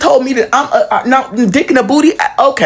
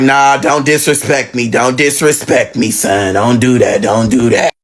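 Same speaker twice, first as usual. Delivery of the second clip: much lower, stern warning voice; stern mother; 10 semitones lower than usual. Retold or imitated. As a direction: drop it low and scold.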